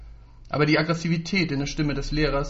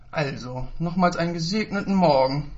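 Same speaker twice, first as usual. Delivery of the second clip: verkrampft weihevoll; 3 semitones higher than usual. Acted. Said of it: "zischte er verkrampft weihevoll".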